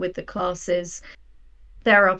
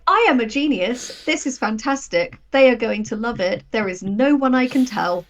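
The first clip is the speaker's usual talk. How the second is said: hammed-up self-praise, a little louder; mock smug genius; 4 semitones higher, 6 dB louder than usual. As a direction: gloat like a proud writer then sulk. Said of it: "It's like".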